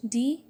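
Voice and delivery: "D" said alone as a separate syllable; isolated syllable. Shown as a demonstration. Teacher counting syllables of decomposed, "D" set apart on its own. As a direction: cut "D" off from the rest of the word. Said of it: "Here there are three syllables".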